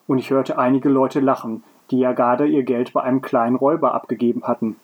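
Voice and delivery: measured read-aloud storytelling; story narration. A narrator's reading. Podcaster reading a story to co-host, narrating. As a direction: read the tale out in careful phrases.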